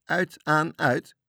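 high, loud called-out signals; shouting back. A narrator's reading. Sailors on the rafts report the flashes, shouting. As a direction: call each flash across the water. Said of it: "klonk het van de vlotten".

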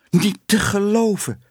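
high-pitched indignant exclamation; scandalised. A narrator's reading. Councillor's wife reacts to the scandal, scandalised and high. Scandalised woman gossips after scene.

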